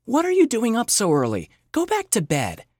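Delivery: groggy sleepy mom voice; drowsy, just woken up; half asleep. Acted. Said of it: "half asleep".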